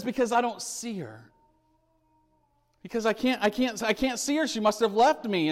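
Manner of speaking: put-on a touch of childlike panic; upset lost child. Voicing upset lost boy in story.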